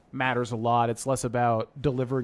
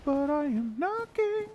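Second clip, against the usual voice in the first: character voice; slower than usual. Retold or imitated. Quoting game dialogue dramatically.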